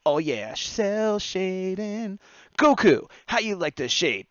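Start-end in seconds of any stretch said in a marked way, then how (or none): 0.1-2.2 slow, raised mock Goku; hammed-up cartoon hero drawl; bad Goku voice. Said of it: "That's not what Goku sounds like". 2.6-3.1 calling out. Pretend. Calling the hero by name.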